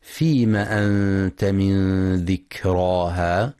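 slow, measured tajweed chant; Quran recitation. Acted. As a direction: recite it slowly and melodically.

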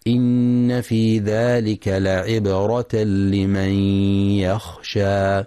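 slow, measured tajweed chant; Quran recitation. Acted. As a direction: recite it slowly and melodically.

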